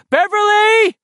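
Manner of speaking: high, loud answering call; calling back. A narrator's reading. Beverly answering the boys, distant loud call. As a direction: shout back to be found.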